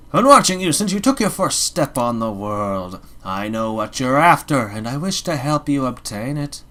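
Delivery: ghostly watcher speaking from the dark; eerie voice. Acted. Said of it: "imagine an eerie voice".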